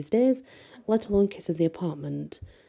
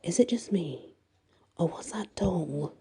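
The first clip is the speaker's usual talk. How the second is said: hushed unvoiced whisper; scared whisper to her friend in the kitchen; 4 dB quieter than usual. A narrator's reading. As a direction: whisper it so the doll won't hear. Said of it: "She lowers her voice".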